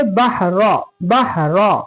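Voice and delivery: बहरा with a thick, backed "ro"; very heavy ra. Shown as a demonstration. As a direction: make the रा of बहरा fully heavy. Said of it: "बहरा एकदम मोटा".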